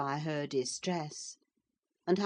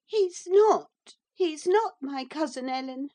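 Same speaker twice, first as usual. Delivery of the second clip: high, loud insistent denial, stressing NOT; refusing the idea through fresh grief; grief-stricken girl; 11 semitones higher, 7 dB louder than usual. A narrator's reading. Cathy clings to Ellen denying her cousin, high and grieving. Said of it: "gathering fresh grief".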